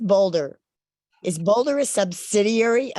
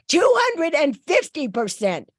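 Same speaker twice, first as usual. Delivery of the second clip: strep throat voice; 5 semitones higher than usual. Real, not acted. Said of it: "I had strep throat for the last week".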